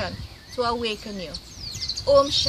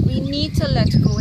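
louder, insistent repeat; emphatic urging; 7 dB louder than usual. Real, not acted. Medium urges grieving viewers to release souls, louder. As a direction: drive the point home to the viewers.

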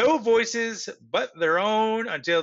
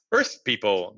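low alien voice, a little louder; deep voice, louder; 8 semitones lower, 3 dB louder than usual. A narrator's reading. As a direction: firmer deep call over the radio. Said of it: "the voice louder now".

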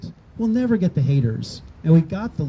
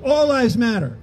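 high, punchy mock shout; retelling a shouted slogan, raised and high; mock yell; 6 semitones higher than usual. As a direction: yell it back in his face, half-playing. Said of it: "and I yelled".

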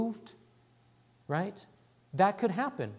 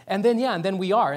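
louder self-mocking burst of excitement; excited rambling; 7 dB louder than usual. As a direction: blurt it, imitating yourself getting carried away. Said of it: "I'm getting all excited".

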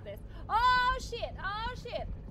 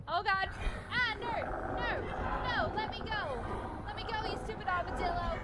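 panicked yelling; 3 semitones higher, 3 dB louder than usual. Real, not acted. Grabbed by armadillo monster.

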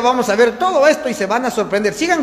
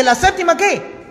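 loud prompt; 4 semitones higher than usual. Real, not acted.

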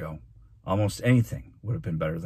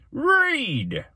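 high, loud one-word order; loud command; 5 dB louder than usual. Acted. Mayor ordering a student to read, commanding. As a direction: bark it as an official order.

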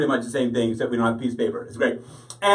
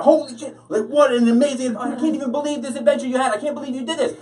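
mock amazement; 7 semitones higher than usual. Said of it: "I was like".

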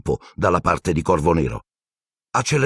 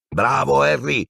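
roar of praise; 7 semitones higher, slower than usual. Acted. Seamus cheering Harry, high cheer. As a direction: shout praise. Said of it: "ruggì Seamus Finnegan".

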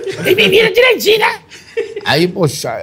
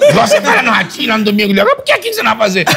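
pastor de voz bem mais aguda, imponente, entre risadas; voz do apóstolo Valdemiro; 6 semitones higher, faster than usual. Retold or imitated. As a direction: imite o apóstolo cobrando o cumprimento, agudo e pregando. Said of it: "escutando a voz do apóstolo". (apóstolo exigindo ser imitado, voz aguda de pregador)

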